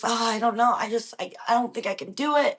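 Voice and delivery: a touch of defeated hospital-bed voice; mildly down. Retold or imitated. Telling the husband on the phone she cannot, mildly down. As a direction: let it sag, lightly. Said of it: "I'd feel really down".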